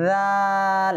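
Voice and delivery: রাল held long as soft "dhaaal"; tongue tip at the teeth, gentle voiced th on রাল; correct soft dhal. Shown as a demonstration. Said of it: "তো এটা কি হবে?". (রাল নরম ও লম্বা করে সঠিক উচ্চারণ)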